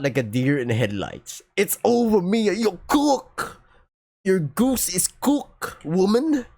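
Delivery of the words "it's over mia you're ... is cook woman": higher, teasing sing-song gloat, slow on the goose line; gloating taunt. Acted. Principal taunting the caught student Mia, gloating. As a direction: rub it in like a smug principal.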